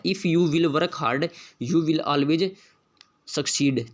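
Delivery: reads the test sentence very slowly, word by word; slow dictation reading. Shown as a demonstration. Teacher reading the question sentence aloud, very slow. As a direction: spell it out slowly for the class.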